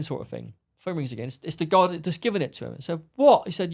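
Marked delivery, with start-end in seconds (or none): 3.1-3.5 annoyed shout. Retold or imitated. Answering the phone, annoyed.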